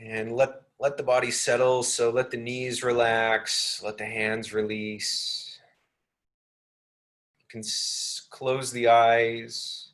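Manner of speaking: unhurried meditation guidance with long pauses; lightly measured, spacious meditation delivery; guided meditation. Real, not acted.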